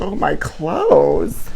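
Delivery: slow, drawn-out mock mommy voice with a squeal; coming unhinged. Host signing off to fans, mock unhinged mommy. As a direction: let the sweet act crack into a laugh. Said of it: "I'm coming unhinged".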